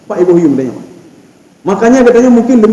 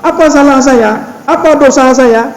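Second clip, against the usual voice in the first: mock pleading complaint; 7 semitones higher than usual. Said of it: "Kita pegang".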